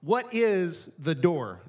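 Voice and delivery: each word slowed and weighted; slow question. Shown as a demonstration. Preacher posing the sermon's first question slowly. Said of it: "The first question is".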